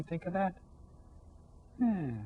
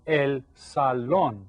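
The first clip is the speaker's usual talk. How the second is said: slow "salón", weight on the "lón"; teacher's careful "salón" with stressed ending; stress on last syllable; much slower than usual. Shown as a demonstration. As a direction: say "salón" slowly, leaning on its final syllable. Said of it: "this has an accent right there".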